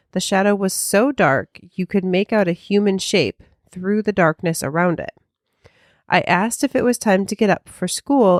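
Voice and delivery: measured reading of a listener's letter; story narration. Acted. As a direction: read the ghost story out clearly, phrase by phrase. Reads listener's ghost story aloud.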